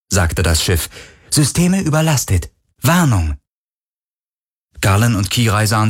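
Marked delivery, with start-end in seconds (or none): 1.3-3.4 higher-pitched shipboard alert; higher alarm announcement, falling at the end; ship's warning voice. A narrator's reading. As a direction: announce the overload as the ship's system. Ship's computer warns of overload.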